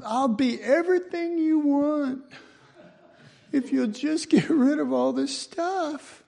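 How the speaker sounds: high, pleading mock prayer; mock desperate plea. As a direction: beg the Lord, half mocking. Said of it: "we're saying".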